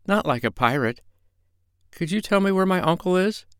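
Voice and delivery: put-on high, timid young boy's voice; a small scared boy asks the stranger; little boy. A narrator's reading. Boy rescued from pirates asks the doctor, timidly.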